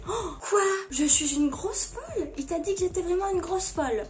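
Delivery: hammed-up affronted gasp and protest; mock outrage. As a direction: act offended and incredulous. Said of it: "je suis outrée, je fais".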